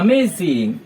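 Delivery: "Amazing" blurted out, falling; amazed blurt. Shown as a demonstration. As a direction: let it slip out in wonder. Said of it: "हमारे मुंह से निकलता". (अचानक हैरानी से निकला "Amazing")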